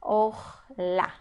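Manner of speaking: "Orla" split or-la, ending on a stressed A; demonstrated reading. Shown as a demonstration. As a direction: sound out "Orla" slowly, O then tonic A. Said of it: "vamos ler como a". (pronúncia didática de "Orla", com A tônico no final)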